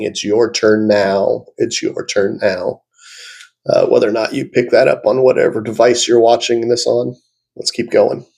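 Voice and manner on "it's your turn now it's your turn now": slow, drawn-out imitation of a ghostly voice. Vlogger repeating the ghostly voice for viewers who missed it, slowly drawn out. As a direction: lightly imitate a ghost, stretching the words slowly. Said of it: "that was a ghostly voice saying".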